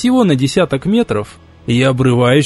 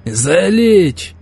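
shouted order; 3 semitones higher than usual. Acted. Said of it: "выкрикнул морпех-сопровождающий".

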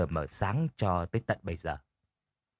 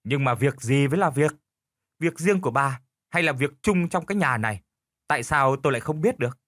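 snapping husband; 2 semitones higher than usual. Acted. Husband snaps at his wife, mild scolding. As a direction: scold his wife, half-hearted snap. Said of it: "Lão Bảy gắt lên".

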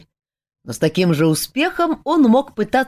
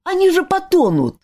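high, panicked protest; frightened cry; 13 semitones higher than usual. A narrator's reading. Friend fears they will drown, high frightened cry. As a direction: cry out in fear for them. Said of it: "испуганный вскрик Жака".

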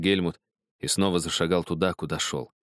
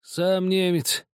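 lightly voiced old soldier, slow and heavy; a hint of a worn-out old man; dying soldier; 11 semitones higher, slower than usual. A narrator's reading. A dying man tells the narrator about the boy, lightly voiced.

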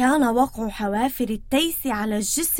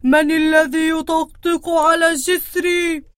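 scary troll; 2 semitones higher than usual. Acted. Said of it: "فقال العفريت بصوت مخيف".

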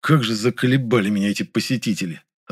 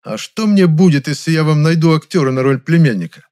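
louder, higher bargaining tone; a bit squabbling; 6 semitones higher, 7 dB louder than usual. A narrator's reading. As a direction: haggle like a petty neighbour. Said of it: "немножко склочным голосом". (немножко склочным голосом)

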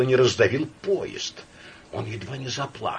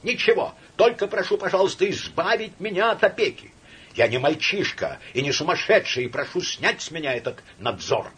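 high, loud, near-screaming rant; hysterical outburst; 11 semitones higher, 6 dB louder than usual. Acted. Laevsky in hysterics at his friend Samoylenko. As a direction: spill it all out in hysterics.

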